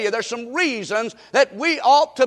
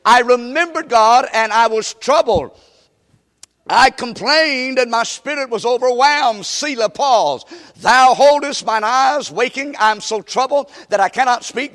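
scripture reading; 2 semitones higher, 4 dB louder than usual. Real, not acted. Reads scripture to congregation.

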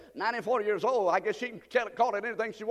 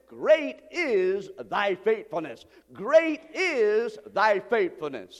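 slow scripture reading; 4 semitones lower, 3 dB louder, slower than usual. Acted. Quoting scripture, slowed down.

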